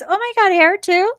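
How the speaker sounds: high, delighted disbelief; amazed gasp. Retold or imitated. Homeless woman thrilled at getting her hair done. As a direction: squeal it out, thrilled and surprised. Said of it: "She goes".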